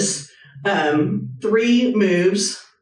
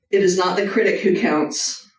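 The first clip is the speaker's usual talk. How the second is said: reading a quote aloud. Shown as a demonstration. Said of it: "but I'm gonna read it".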